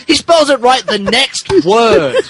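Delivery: high, loud laughing outburst; laughing squeal. Real, not acted. Reader cracking up at the script's misspelling, laughing squeal. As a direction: crack up while reading.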